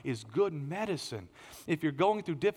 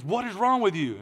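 raised, louder incredulous question; mock disbelief; 5 semitones higher, 5 dB louder than usual. Onlookers question someone who burst out laughing, mock disbelief. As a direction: ask it like a baffled onlooker. Others react to his laughing.

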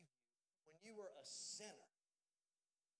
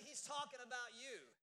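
with conviction; 2 semitones higher, 7 dB louder than usual. Shown as a demonstration. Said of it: "y'all didn't say that with much conviction".

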